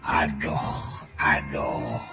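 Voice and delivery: low, soft "aduh" groans; dismayed groan. Acted. Villain dismayed in his thoughts. (ngahégak aduh, sora handap)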